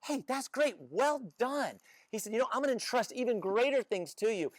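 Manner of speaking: lightly voiced happy master giving praise; pleased master. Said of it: "And the master said".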